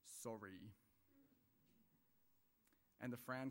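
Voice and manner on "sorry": low, grudging, sulky "sorry"; angry sorry. Retold or imitated. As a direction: mimic a child made to apologise, angry and unwilling. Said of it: "there's the angry sorry".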